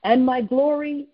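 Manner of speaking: measured prophetic reading with pauses between phrases; slow, deliberate reading. Real, not acted. Minister reads a word from the Lord to callers, slow and deliberate. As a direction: read it out slowly and solemnly, letting each phrase land. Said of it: "I want to read it slow".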